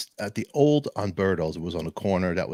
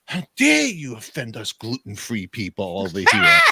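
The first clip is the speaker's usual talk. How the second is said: hammed-up offended customer; mock outrage, pushed louder; imitated huffy complaint; mock indignation; 5 dB louder than usual.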